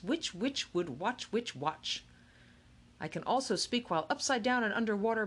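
brisk, articulate showman; a touch of polished announcer; crisp, clear voice. Acted. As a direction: snap every consonant cleanly and confidently. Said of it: "he said in a crisp, clear voice".

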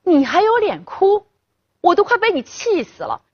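put-on a drunk father yelling at his crying daughter, furious; drunken angry scolding. A narrator's reading. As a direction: tear into the crying girl. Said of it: "刘金山骂道".

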